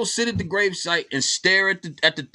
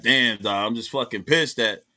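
much lower, grumbling grown lion; grown-up Simba; 9 semitones lower than usual. Pretend. Older Simba complains to Nala about the kids' grandfather, in a low grumble. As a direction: grumble it like a father who still misses his dad. Voicing adult Simba years later.

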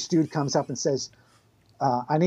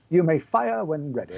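snobby British; 3 semitones higher than usual. Retold or imitated. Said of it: "I have to go British English".

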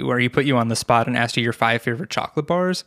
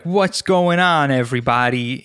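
Rob. Shown as a demonstration. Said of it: "Rob is, he's, like, in between".

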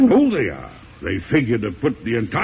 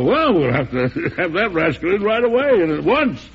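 laughing delight; 3 semitones higher than usual. Acted. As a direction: laugh with pleasure at an old rascal's name. Laughs hearing old friend arrived.

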